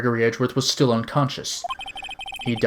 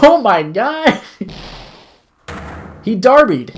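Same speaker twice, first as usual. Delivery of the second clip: loud, high burst of disbelief; shocked outburst; 9 semitones higher, 4 dB louder, slower than usual. Real, not acted. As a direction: yell out in real shock. Streamer reacts to shocking scream.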